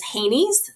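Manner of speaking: "Haney's" spoken as a word, not spelled out; pronounced "Haney's". Shown as a demonstration. Guest explains the association's acronym, "Haney's" pronounced HAY-neez. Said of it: "we just pronounce that as Haney's".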